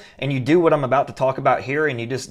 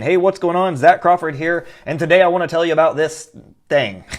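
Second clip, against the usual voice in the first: upbeat, higher, smiling intro; happy video greeting; 3 semitones higher, 3 dB louder than usual. Retold or imitated. Affiliate greeting viewers on his bridge page video, bright and smiling. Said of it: "here is my little happy self smiling, saying".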